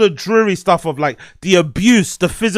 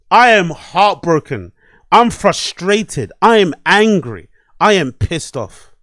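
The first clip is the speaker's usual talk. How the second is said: slow emphatic; slower than usual. Real, not acted.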